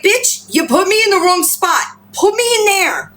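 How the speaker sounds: high-pitched indignant pet's complaint; voicing the pet. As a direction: speak up high as the put-out little animal. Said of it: "That's what he's saying to me".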